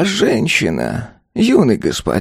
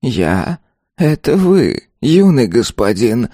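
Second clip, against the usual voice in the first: calm ghost; 6 semitones higher, slower than usual. A narrator's reading. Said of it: "спокойно ответил призрак".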